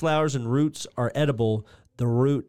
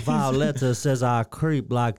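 slow, lightly voiced Gilbert; slower than usual. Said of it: "this part right here".

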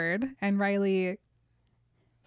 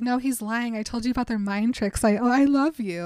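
put-on higher, pleading baby voice; little baby voice; 3 semitones higher than usual. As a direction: whine it like a needy child. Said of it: "With her little baby voice".

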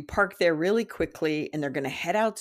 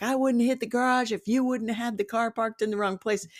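higher-pitched, mock-indignant comeback; retold argument; 5 semitones higher than usual. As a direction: fire back as in a retold family squabble. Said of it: "it became a whole hullabaloo".

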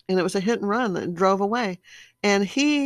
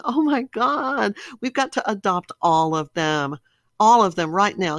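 mock tearful gush; 4 dB louder than usual. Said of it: "crying and saying".

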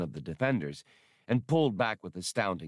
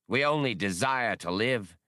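lightly hypnotic, higher pitch; mesmerizing; 4 semitones higher than usual. Acted. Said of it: "Ul Rashan's hypnotic voice".

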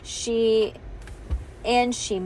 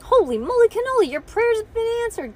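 high-pitched, quick, amazed proclamation; excited cry; 12 semitones higher, 5 dB louder, faster than usual. A narrator's reading. Bean announcing answered prayers to Ivy, excited high cry. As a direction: cry it out as a staged miracle. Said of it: "cried Ivy, cried Bean".

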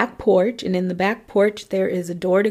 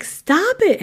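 much higher, snapped command; sharp stop it; 12 semitones higher than usual. Retold or imitated. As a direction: cut him off hard. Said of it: "she's like".

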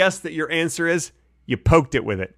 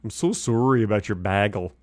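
copying Wisconsin SORE-ee and BAG-ul; imitated Wisconsin accent; 4 semitones lower, 3 dB quieter than usual. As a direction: try out Wisconsin "sorry" and "bagel". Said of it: "how they say it in Wisconsin".

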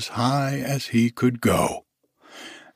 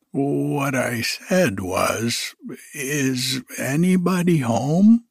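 calling loudly; 3 semitones higher, slower than usual. Acted. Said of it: "called out Pooh very loudly".

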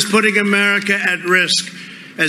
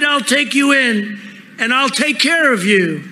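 tender woman; 4 semitones higher than usual. Acted. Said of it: "she cried".

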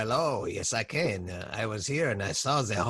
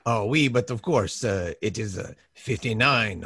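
French chef. Pretend. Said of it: "say fifty-nine in French".

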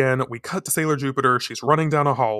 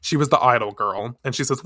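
ordinary talk

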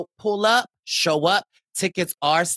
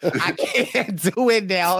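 cracking up mid-sentence; can't stop laughing; slower than usual. Real, not acted. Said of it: "You sound like a sick pirate".

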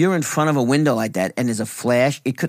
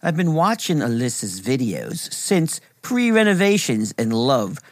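spooky voice. Acted. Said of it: "Please talk normal".

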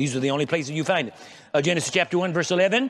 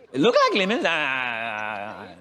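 laughing; 5 semitones lower than usual. Real, not acted. Preacher laughs at own joke.

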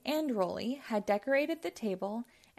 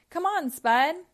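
loud, higher call to Spud; 7 semitones higher, 7 dB louder than usual. A narrator's reading. Travis calling Spud to come along. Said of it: "he called".

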